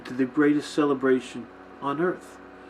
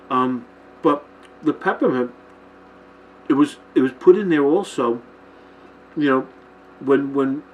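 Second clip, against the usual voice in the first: mouth full. Real, not acted. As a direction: still eating candy. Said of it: "I'm still eating the candy cane".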